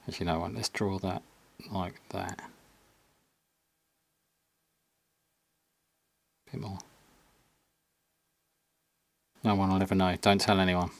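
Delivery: husky, as if into your ear. Real, not acted. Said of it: "I'm talking like a husky voice".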